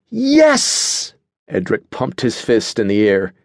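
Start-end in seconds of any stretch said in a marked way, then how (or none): 0.1-1.1 very high, drawn-out triumphant yes; triumphant cheer. A narrator's reading. Edric heartily agrees with Adelaide, triumphant. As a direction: cheer like someone finally vindicated.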